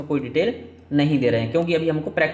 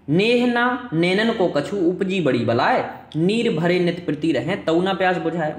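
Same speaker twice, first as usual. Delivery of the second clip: poem recitation. Shown as a demonstration. Teacher recites a couplet.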